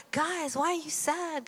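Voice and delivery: teasing pretend ignorance; feigned innocent concern. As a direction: act clueless, voice lifting high. Jesus playfully feigns ignorance to travellers.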